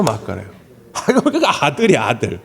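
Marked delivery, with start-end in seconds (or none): none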